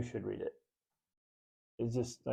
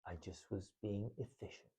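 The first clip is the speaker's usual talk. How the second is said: defensive mutter; 10 dB quieter than usual. Retold or imitated. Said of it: "I'm like".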